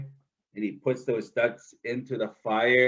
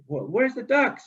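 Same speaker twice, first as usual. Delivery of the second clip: trickster calling out; 9 semitones higher than usual. Acted. Trickster calls the ducks.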